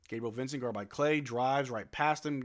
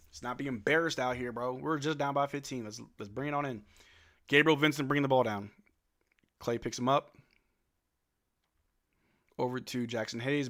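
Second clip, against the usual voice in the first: normal talking voice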